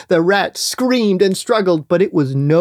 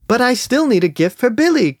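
pleading shout; 6 semitones higher than usual. Acted. Rat pleads with shopkeeper.

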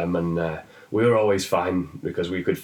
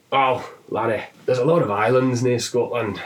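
put-on Scottish accent; 2 semitones higher than usual. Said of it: "a fantastic Scottish one".

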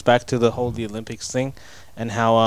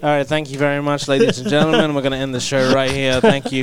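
loud, formal show-closing announcement; show host announcer; 2 semitones higher, 5 dB louder than usual. Pretend. Mock ending the show.

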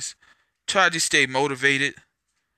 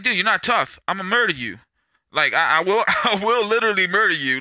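raised-pitch, half-laughing tough talk; retold threat; 5 semitones higher than usual. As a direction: replay warning off a would-be fighter, voice lifted. Retold threat to a would-be fighter.

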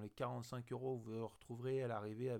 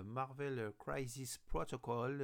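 slow, self-mocking English accent on the game name; slower than usual. Shown as a demonstration. Vlogger naming the American game for French viewers, in a slow mock English accent. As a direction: give the name your best English accent, tongue in cheek. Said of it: "admirez mon accent anglais".

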